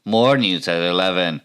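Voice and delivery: lightly put-on anchor sign-off; brief punched news teaser; newscaster voice. YouTuber closing the news bit, mock anchor voice. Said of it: "my best newscaster voice".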